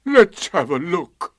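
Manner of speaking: slow, high, loud donkey voice; mournful, heavy drawl; Eeyore. A narrator's reading. Eeyore checking for his tail, gloomy. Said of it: "said Eeyore".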